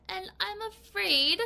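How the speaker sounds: lightly voiced man, a bit slow; lightly put-on man's voice. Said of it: "That's my man voice".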